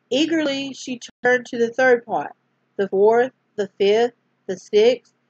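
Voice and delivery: storyteller reading aloud; story narration. A narrator's reading. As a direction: gently read bedtime-story voice. Reads a Bible story aloud.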